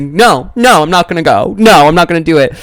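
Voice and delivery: high, insistent mock refusal; retold freaking out. Sister refusing dad over coffee, mock freak-out. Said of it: "why are you freaking out?".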